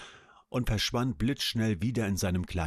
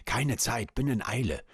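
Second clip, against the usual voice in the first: lightly voiced refined lady; a hint of a hurried grand lady; genteel voice; 3 semitones higher than usual. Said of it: "sagte sie mit vornehmer Stimme".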